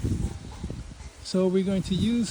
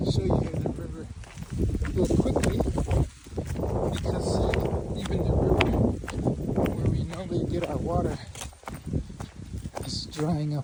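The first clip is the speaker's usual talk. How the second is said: shaky, bumpy delivery on the move; on a bumpy road. Real, not acted. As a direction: voice jolting while walking. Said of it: "Sorry for the shaking".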